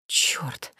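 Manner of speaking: unvoiced alarmed whisper; whispered curse. A narrator's reading. The heroine spotting Askold, a whispered curse. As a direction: curse under your breath.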